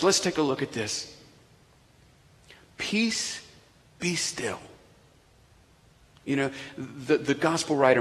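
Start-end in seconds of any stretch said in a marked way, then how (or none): 2.8-4.6 whispered, calm command; Jesus quietly stilling the storm; soft command. Acted. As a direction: hush the storm gently. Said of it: "he says these words".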